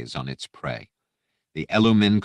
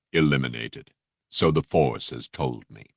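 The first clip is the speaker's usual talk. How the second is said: low, rich, unhurried menace; silky threat, barely raised; deep polite Vader; 4 semitones lower than usual. Acted. Vader cutting off his aide, low and silky. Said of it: "The voice was rich, deep, mellifluous".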